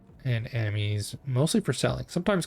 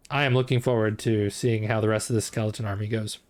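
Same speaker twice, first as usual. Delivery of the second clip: hiccuping. Real, not acted. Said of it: "I am hiccuping and burping".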